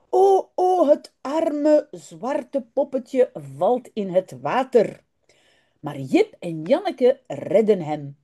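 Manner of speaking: slow, carefully articulated Dutch storytelling; storybook narration with stretched-out key words; children's story reading. A narrator's reading. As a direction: read it to language learners, unhurried, with lively character lines. Reads a children's story aloud.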